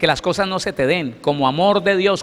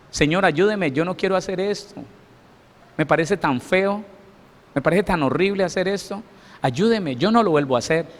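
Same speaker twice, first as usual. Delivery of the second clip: retold anguished prayer; 3 semitones higher than usual. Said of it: "Me afligía tanto".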